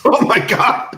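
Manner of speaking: high, loud oh my God; surprised. Real, not acted. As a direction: react with sudden disbelief. Hearing a nightmare team pairing.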